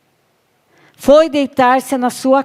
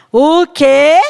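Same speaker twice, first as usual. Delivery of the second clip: outraged what; 5 semitones higher, 8 dB louder than usual. Acted. Jezebel outraged.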